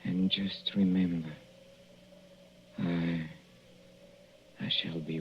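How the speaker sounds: slow whisper, barely voiced; menacing slow whisper; whispered threat. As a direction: breathe the words out slowly like a promise. Dying poisoner threatens his wife.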